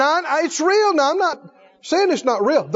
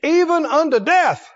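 mild defiant Jonah; 4 semitones higher than usual. Acted. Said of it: "He said".

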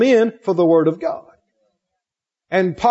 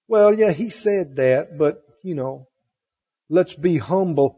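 mock falsely humble; 6 semitones lower, 4 dB quieter than usual. Preacher mocking doubters who want to sound humble. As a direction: mimic a pious hedger in a small voice. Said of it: "people think they do".

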